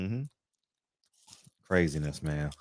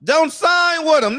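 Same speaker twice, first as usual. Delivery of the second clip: slow, loud, high plea, higher still; imitating Al; 12 semitones higher, 8 dB louder, slower than usual. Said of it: "that's how Al talk".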